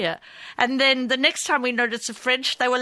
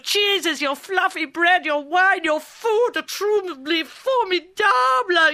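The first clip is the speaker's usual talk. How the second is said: french chef; 4 semitones higher than usual. Retold or imitated. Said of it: "You just flatter them and you pamper them".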